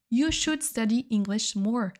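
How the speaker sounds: slowly, each word laid out clearly; careful slow classroom model; slow repeat for learners. Shown as a demonstration. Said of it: "teacher repeats example slowly".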